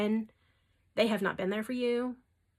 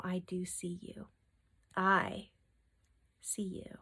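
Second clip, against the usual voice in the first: softer and softer until "see you" is a whisper; tender whisper; 5 dB quieter than usual. Real, not acted. Reader comforts hurting viewers, fading to a soft whisper. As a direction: drop to a hushed whisper to comfort them.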